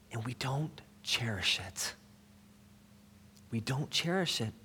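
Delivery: quoting softly, dropping almost to breath; hushed regret. Retold or imitated. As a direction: drop the volume for a grave quoted admission. Translator's sad rebuke, quoted gravely.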